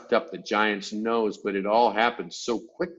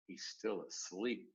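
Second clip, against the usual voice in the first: hushed, much softer whisper; 3 semitones lower, 13 dB quieter than usual. A narrator's reading. BFG whispering to Sophie about the giant. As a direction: keep it down so he won't wake. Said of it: "the B F G whispered".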